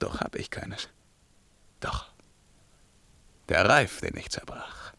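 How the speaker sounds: hushed whisper to himself; king whispering as he remembers the broken crown; musing whisper. Acted. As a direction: whisper the thought as it dawns.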